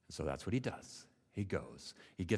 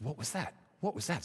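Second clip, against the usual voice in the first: higher, startled repeated question; 6 semitones higher, faster than usual. Acted. Frog hears something hit the water, startled. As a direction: jolt upward at a sudden noise.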